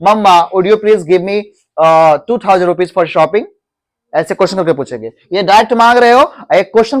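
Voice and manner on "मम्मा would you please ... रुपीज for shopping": slow, polite question to mamma; asking mamma as a question, slowly. Shown as a demonstration. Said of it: "ऐसे भी कह सकते हो".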